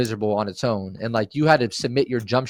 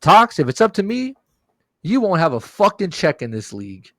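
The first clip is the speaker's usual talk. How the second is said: Jerry; 6 semitones higher than usual. Retold or imitated. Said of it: "Jerry looking at me and saying".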